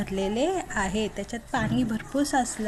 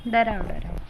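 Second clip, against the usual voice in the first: croaky imitation of a frog, डराव डराव; frog croak; 5 semitones lower than usual. Shown as a demonstration. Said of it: "हा कसा ओरडतो बरं?".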